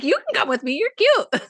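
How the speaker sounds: put-on high-pitched gushing at a child; cutesy cooing. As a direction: coo it sweetly, pitch way up. Retold cooing at little girl.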